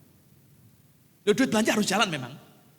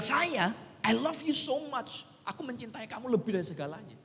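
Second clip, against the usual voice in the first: tender reassurance; 5 dB quieter than usual. Retold or imitated. Father tenderly comforts his daughter.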